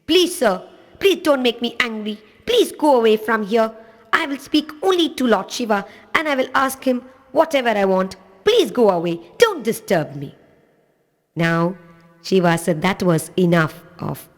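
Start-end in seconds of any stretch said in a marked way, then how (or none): 0.1-10.3 put-on a small boy's higher voice with a touch of irritation; mildly angry boy. Irritated little boy telling the stranger to leave, mild anger. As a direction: shoo him away, only slightly annoyed. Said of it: "He was very angry and he said".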